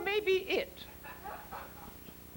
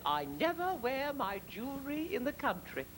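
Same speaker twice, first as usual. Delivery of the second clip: soft, composed and unhurried; calm, unafraid; 4 semitones lower, 5 dB quieter than usual. Retold or imitated. Queen to highwayman, calm and composed. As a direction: say it coolly, nothing can rattle you. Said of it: "Did you notice my voice? I wasn't afraid".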